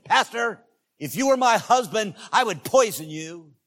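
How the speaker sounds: high, loud, indignant threat; domineering wife. Retold or imitated.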